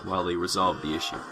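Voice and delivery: measured sci-fi prologue narration; story narration. A narrator's reading. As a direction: narrate the grim backdrop of a space story. Reads story introduction.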